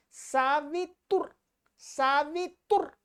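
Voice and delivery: सावितुर syllable by syllable, no vowel after 'r'; halted final R. Shown as a demonstration. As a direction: close सावितुर on a bare 'r'. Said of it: "र में हलंत है ये". (सावितुर, र में हलंत)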